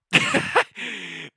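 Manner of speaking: big high cackle bursting out; loud burst of laughter. Real, not acted. Trader laughing at his own losses, loud cackle.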